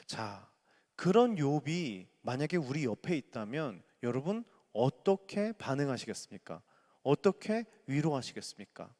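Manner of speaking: ordinary talk, nothing marked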